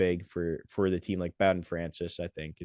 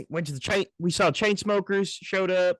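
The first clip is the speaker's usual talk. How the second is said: scruffy mock voice; 9 semitones higher than usual. Still in the mocking voice.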